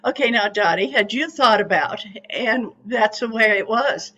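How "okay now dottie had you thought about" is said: gentle. Retold or imitated. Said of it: "he would just answer me very gently".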